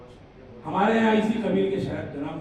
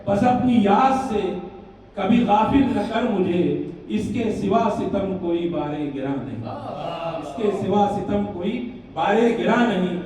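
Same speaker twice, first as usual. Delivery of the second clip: measured, rhythmic couplet delivery; lilting traditional Urdu verse reading; ghazal recitation; 5 dB louder than usual. Acted. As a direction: recite it line by line for listeners.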